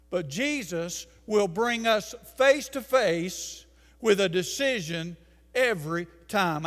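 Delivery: ordinary talk, nothing marked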